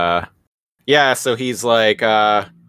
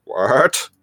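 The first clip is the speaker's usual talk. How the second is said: Southern Belle; 5 semitones higher than usual. Retold or imitated. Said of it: "In a very Southern Belle kind of way".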